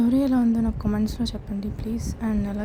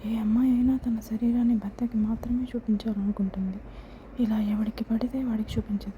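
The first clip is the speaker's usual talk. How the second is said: sadly; 3 dB quieter than usual. Acted. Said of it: "అని బాధతో చెప్పింది".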